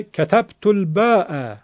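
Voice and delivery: slow, with الباء ending on a clear hamza; hamza pronounced. Shown as a demonstration. Teacher showing the hamza kept outside the Quran, slow. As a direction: sound the final hamza of الباء.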